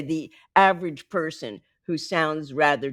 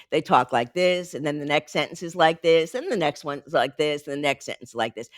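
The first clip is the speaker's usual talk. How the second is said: same falling tune on every "like this"; monopattern; 2 semitones lower than usual. Shown as a demonstration. Coach mimicking monopattern talkers, each "like this" alike. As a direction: repeat one melody, each "like this" landing identically. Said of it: "many people are monopattern".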